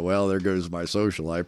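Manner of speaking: "Well, there goes my social life" through a chuckle; laughing wryly. Retold or imitated. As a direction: laugh it off ruefully. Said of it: "I go".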